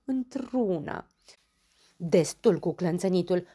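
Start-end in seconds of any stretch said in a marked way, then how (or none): 2.0-3.5 grumbling complaint, a bit louder; bombănit iritat. Acted. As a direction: grumble at the chattering. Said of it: "bombănea Dondănel". (bombănind iritat)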